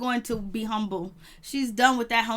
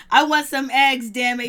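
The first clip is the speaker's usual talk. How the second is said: mock demand; 6 dB louder than usual. Host playing the husband wanting his eggs, mock demand. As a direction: demand it loudly, half laughing.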